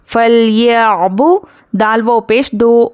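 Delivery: slow chanted tilawat; Quran recitation. Shown as a demonstration. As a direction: recite slowly with long vowels. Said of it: "teacher recites". (धीमी तिलावत)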